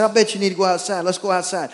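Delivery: cheery pet-talk voice; talking to the dog. Retold or imitated. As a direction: chat up the dog like a baby. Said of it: "I said".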